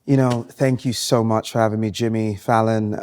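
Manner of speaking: slow, measured British actor; British accent. Pretend. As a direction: put on an understated British accent. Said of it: "I pretend to have a British accent".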